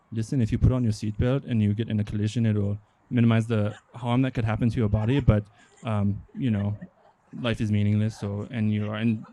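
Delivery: put-on light German accent, unemotional; deadpan, lightly voiced German woman; stern German woman. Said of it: "a very stern, unemotional German woman".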